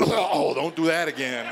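mock choked cough into a complaint; coughing car. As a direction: imitate a car choking and coughing out words. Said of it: "the car actually coughed".

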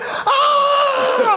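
high-pitched mock shriek; imitated scream. Singer sees her in the makeup chair, imitated shriek. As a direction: shriek as if horrified, hammed up. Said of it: "was screaming, screaming".

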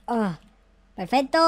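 ordinary delivery

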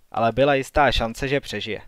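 ordinary delivery, nothing marked

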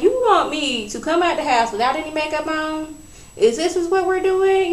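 mock outrage. Ladies balking at no makeup.

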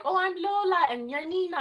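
high, sing-song make-believe voice; playful kid role-play. Retold or imitated. Sisters playing pretend as Lola and Nina, playful high voice.

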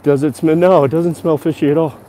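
huffing and puffing while climbing; out of breath. Real, not acted. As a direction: talk between heavy breaths. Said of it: "I'm huffing and puffing a bit".

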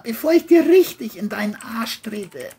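menacing whisper; whispered threat. Acted. John threatens the boy in a whisper.

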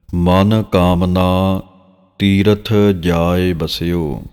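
drawn-out, measured reading of sacred verse; slow scripture recitation. Shown as a demonstration. Teacher reciting Gurbani verse for students, slow and measured. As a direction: recite each phrase slowly and reverently.

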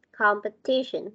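"Competition" with the stress on TI; fluent word stress. Shown as a demonstration. Teacher showing fluent English, stressed TI in "Competition". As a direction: stress TI and let "Competition" flow. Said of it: "Nhấn trọng âm thì nói nó mới".

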